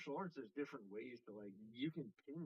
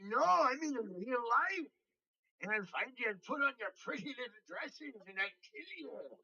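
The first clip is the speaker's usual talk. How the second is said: shouted Irish threat; 12 semitones higher, 10 dB louder than usual. Retold or imitated. Sam Hyde ranting threats at Hasan Piker in an Irish accent. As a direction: yell it in a mad Irish brogue. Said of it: "like, Irish accent".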